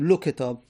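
لو کتاب said lu-ketab, with a short u on the lam; lam with damma. Shown as a demonstration. Teacher showing students لو کتاب with damma, lu-ketab. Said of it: "یک حالت میمونه که لو بگیم".

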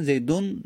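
"زیدون" as zaydun with a held n; nun sakin. Shown as a demonstration. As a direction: linger on the final n of "زیدون". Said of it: "نون ساکن".

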